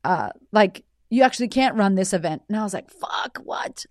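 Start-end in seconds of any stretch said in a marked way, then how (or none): 2.9-3.8 high, breath-only retold gasp of disbelief; whispered shock. Woman told she can't run her event, whispered shock. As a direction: whisper it as if stunned.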